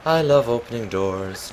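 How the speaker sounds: high mock amazement, loud then easing; silly put-on voice. Player reacting to a door opening, silly put-on amazed voice. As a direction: gush in a silly high voice over something trivial. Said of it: "I don't know why I'm speaking like this".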